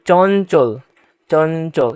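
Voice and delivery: চঞ্চল as "chon-chol", with a held dental n; pronunciation model. Shown as a demonstration. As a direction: say চঞ্চল twice, slowly, sounding the n in the middle. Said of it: "এভাবে উচ্চারণ হবে".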